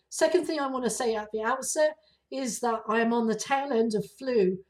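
hoarse from the flu; rough, raspy voice. Real, not acted. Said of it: "I have this raspy sounding voice".

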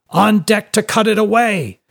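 high, loud shouted order; urgent shout. A narrator's reading. Captain shouting as the mast falls, high and urgent. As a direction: shout it across the ship. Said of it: "shouted the captain".

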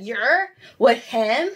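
slow, incredulous rude question, imitated; really rude. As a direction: mimic her rude disbelief, drawing out the words. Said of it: "really rude".

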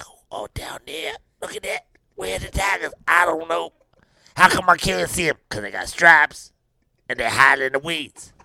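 hushed unvoiced whisper of players hiding; secretive whisper. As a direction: whisper like you're hiding in the weeds.

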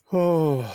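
long falling "oh"; real sigh while fumbling with controls; exasperated sigh. Real, not acted. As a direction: sigh out a drawn "oh". Fumbling with equipment on air.

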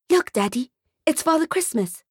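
put-on high, eager child voice; a small boy pointing at Santa; excited little boy. Little boy to his dad, high and eager.

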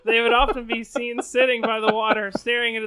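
laughing while reading. Real, not acted. Laughs while reading sad story.

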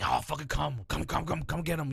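lightly voiced luring spirit; a hint of a sinister lure. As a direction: coax them in. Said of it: "Like, like luring you".

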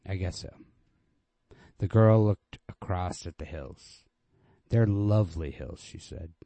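steady, even literary reading voice; story narration. A narrator's reading. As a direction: read the story plainly and evenly, letting dialogue lift. Reads Hemingway story aloud.

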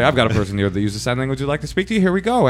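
brisk, rising relay intro; hurried interpreter patter; quickly. Shown as a demonstration. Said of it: "and quickly".

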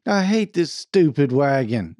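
half-hearted, timid complaint; mildly hesitant grumble. A narrator's reading. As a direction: try to yell but hold back. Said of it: "said Claude timidly".

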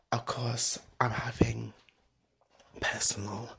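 hushed whisper; whispered aside. Real, not acted. A whispered aside to viewers about the blog.

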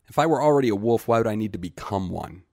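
loud, high, fast protest; defiant outburst. Acted. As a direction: burst out, pushing back hard. Boy's defiant outburst at Greet.

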